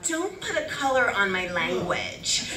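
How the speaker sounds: slow, laughing, sassy retort; sassy comeback. Retold or imitated. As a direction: put her in her place, half laughing. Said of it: "And I was like".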